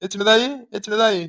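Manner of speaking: slow repeated call, name falling each time; drawn-out calling. Acted. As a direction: drag the name out, calling again and again. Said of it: "இப்படி கத்திக்கிட்டே இருக்கீங்க".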